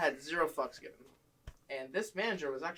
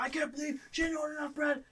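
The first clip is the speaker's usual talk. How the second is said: imitated boss; 12 semitones higher than usual. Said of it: "He starts freaking out".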